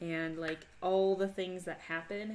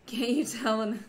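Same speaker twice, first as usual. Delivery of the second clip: loud, high Minnesota accent; put-on Minnesota accent, pitched up and loud; 5 semitones higher, 11 dB louder than usual. Shown as a demonstration. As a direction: lean hard into a Minnesota twang. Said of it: "can't you tell when the accent kicks in".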